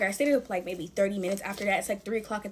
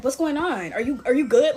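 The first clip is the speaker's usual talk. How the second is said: louder, higher urgent questioning; retold concern; 3 semitones higher, 6 dB louder than usual. Boyfriend checking on her over the phone, retold concern. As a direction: imitate a worried boyfriend checking in. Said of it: "he sounds so concerned over the phone".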